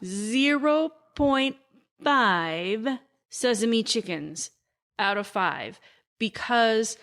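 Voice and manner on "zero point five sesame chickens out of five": slowly spaced words, pausing between each; slow deliberate announcement. Shown as a demonstration. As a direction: announce the rating word by word. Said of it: "rating repeated in full".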